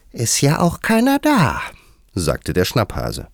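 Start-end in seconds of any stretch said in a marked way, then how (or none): 0.1-1.6 very high, squeaky hare retort; high cartoon animal voice; cheeky March Hare. A narrator's reading. March Hare's figure voice retorts.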